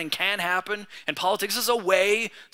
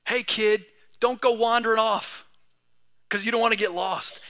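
put-on mild call to a wandering kid, a bit louder; parent warning a kid; 4 semitones higher, 3 dB louder than usual. Parent warning a little boy in the museum, firm and a touch raised. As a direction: warn the kid off as a parent would. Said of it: "there's a little caution in me".

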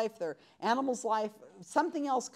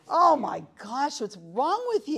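mock scorn; 3 semitones higher, 4 dB louder, slower than usual. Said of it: "mocking reactions to ridiculous claims".

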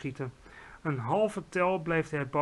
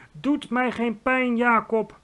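high, slow, pleading cry; shrieking plea; 6 semitones higher, 5 dB louder, slower than usual. A narrator's reading. Giant pleads with Jacob in his dream, high wailing shriek. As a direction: cry out for mercy, stretching the words. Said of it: "gilde hij".

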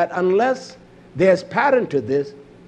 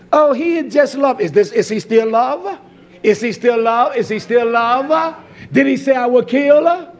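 heated challenge; 5 semitones higher, 4 dB louder than usual. Real, not acted. Heated rhetorical questions to congregation.

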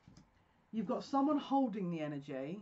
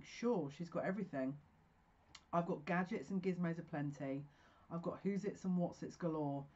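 lyric recital. Acted. Reciting Ariel's lyrics to her viewers, lightly dramatic. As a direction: recite the lyrics out, fuller than before.

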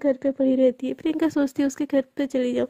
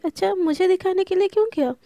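higher, curious teasing question; a pointed, higher teasing ask; teasing surprise; 5 semitones higher than usual. Acted. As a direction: catch her out, amused. Teasing question to her friend.

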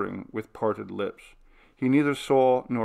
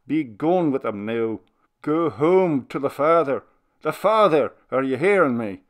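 put-on pleading old minister; 3 semitones higher, 6 dB louder than usual. A narrator's reading.

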